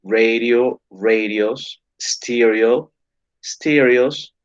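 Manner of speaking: "radio, radios, stereo, stereos" read clearly, stressing the plural s; singular and plural demo. Shown as a demonstration. Teacher reading singular and plural pairs, carefully. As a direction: model each singular, then its plural. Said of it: "cambia sus".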